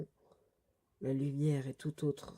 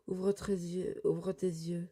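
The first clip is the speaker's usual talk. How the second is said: raised-pitch plea, said twice; urgent pleading; 4 semitones higher, slower than usual. Acted. Lector urging Sting to see clearly, urgent pleading. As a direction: urge a friend to come round.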